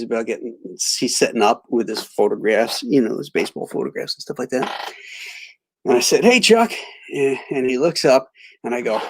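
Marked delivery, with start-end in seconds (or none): 6.2-6.7 bright, higher hail across the table; calling out. Retold or imitated. Fan greets his hero at the autograph table, calling out. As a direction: call his name to catch his eye.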